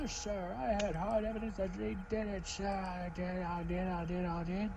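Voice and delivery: high-pitched insistent character voice; eager detective. Acted. Detective defending the arrest to the court, high insistent voice. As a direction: insist in a high put-on voice, repeating yourself.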